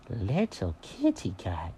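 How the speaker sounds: low, slow, soft offended echo; stung, drawn-out quiet query; affronted cat. Acted. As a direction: repeat it slowly, dropped low in disbelief. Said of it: "how rude do you have to be".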